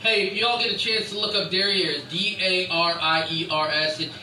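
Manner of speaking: too close to the mic, distorting; clipping distorted mic. Real, not acted. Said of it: "Why you yelling at the mic".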